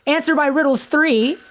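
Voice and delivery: high, slow, hammed-up demand; imperious Lady Catherine. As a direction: play a commanding grande dame, high-pitched and drawn out. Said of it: "that's my impression of her".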